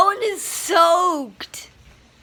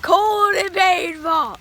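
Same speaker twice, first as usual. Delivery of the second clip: pained shout; 2 semitones higher than usual. Real, not acted. Hail pelting, shouting in pain.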